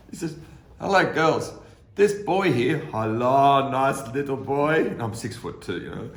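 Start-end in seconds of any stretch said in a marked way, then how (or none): 0.8-4.9 a hint of cooing factory women; lightly voiced women cooing; mock sweet ladies. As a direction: coo over him like a little boy. Women greeting him sweetly.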